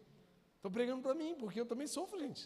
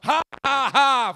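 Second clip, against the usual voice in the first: big, loud demo laugh; 4 semitones higher, 16 dB louder, slower than usual. Shown as a demonstration. Preacher showing the church how to laugh, loud laugh. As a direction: belly laugh it out. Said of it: "fala assim, ó".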